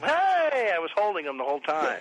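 mock outraged wife; indignant wife. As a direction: imitate the wife calling out in protest. Acting out wife's indignant outburst.

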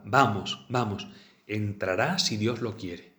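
"Vamos, vamos, entrará si Dios lo quiere" slowed, each syllable marked lightly; stressing each syllable. Retold or imitated. The Pope answering the girl, each syllable of "entrará si Dios lo quiere" stressed slowly. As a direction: lean on every syllable of "entrará si Dios lo quiere", slow and deliberate. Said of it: "pronunció estas palabras recalcando cada sílaba".

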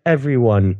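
lightly voiced sweet waif; a hint of a pious little child; quick mock-innocent character line; Tiny Tim. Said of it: "doing the Tiny Tim role".

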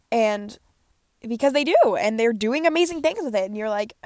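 blocked nose, like plugging it; congested. Real, not acted. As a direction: talk with a stuffy, blocked nose. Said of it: "sorry if I sound super congested".

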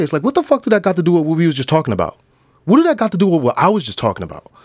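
high, loud incredulous protest; mock exasperation. Viewer reacting to an off-topic dramatic answer, mock exasperated.

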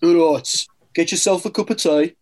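put-on Peaky Blinders Brummie; mock Birmingham accent. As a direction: do a playful Brummie greeting. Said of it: "by watching Peaky Blinders".

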